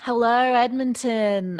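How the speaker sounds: badly faked Australian, like a singer hailing the crowd; mock Australian accent. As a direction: put on a shaky-at-best Aussie accent. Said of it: "they'd have Australian accents".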